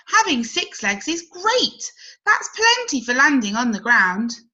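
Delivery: a grasshopper showing off his legs; enthusing grasshopper. Acted.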